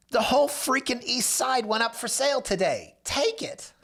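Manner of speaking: high, frantic urging; freaking out. Retold or imitated. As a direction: push the seller like he's losing his mind. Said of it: "him freaking out on the phone".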